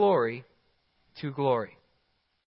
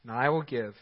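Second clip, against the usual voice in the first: low, soft, measured recitation; scripture reading; 5 semitones lower, 7 dB quieter than usual. A narrator's reading. Preacher reading the words from the throne, low solemn reading.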